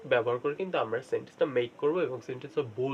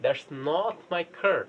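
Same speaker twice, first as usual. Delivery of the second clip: slow drill; much slower than usual. Shown as a demonstration.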